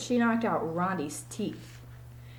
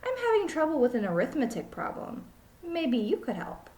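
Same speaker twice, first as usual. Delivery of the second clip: silly teacher; 6 semitones higher than usual. Acted. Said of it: "said Missus Jewell's".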